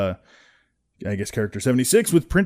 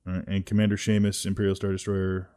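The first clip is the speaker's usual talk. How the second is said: normal talking voice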